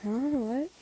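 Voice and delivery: rising, startled huh-what; surprised. Acted. Listener told by crush she's pretty, surprised. Reacting to being called pretty.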